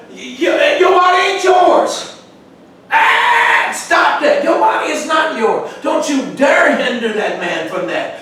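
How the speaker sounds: a fiery sermon shout, quoting the apostle; preacher shouting Paul. Retold or imitated. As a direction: thunder Paul's words at the church. Preacher voicing Paul's letter.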